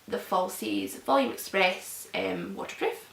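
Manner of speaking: talking with mouth stretched open; mouth propped open. Real, not acted. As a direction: mascara face, jaw dropped open. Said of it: "Mascara face".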